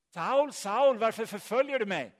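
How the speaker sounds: loud, high-pitched call. Retold or imitated. Voice from heaven challenges the persecutor Saul, calling out loudly. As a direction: cry it out as a voice from above. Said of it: "nu hör han någon som ropar".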